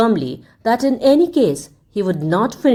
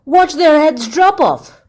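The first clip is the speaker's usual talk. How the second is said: louder, higher jeer; a soldier eager for the execution; gleeful cry; 7 semitones higher, 5 dB louder than usual. A narrator's reading. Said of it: "cried one of the men".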